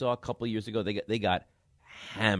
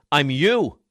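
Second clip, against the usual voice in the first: louder, higher mock revelation; retold realization; 4 semitones higher, 8 dB louder than usual. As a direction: act out a kid's sudden, horrified realization. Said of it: "he has this moment of clarity".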